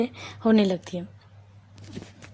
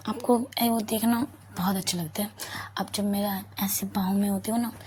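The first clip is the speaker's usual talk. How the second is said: tender murmur. Acted. Lover speaks tenderly in bed.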